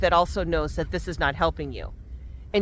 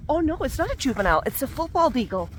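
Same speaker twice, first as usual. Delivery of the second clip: excited; 7 semitones higher than usual. Real, not acted. Spotting a bald eagle overhead.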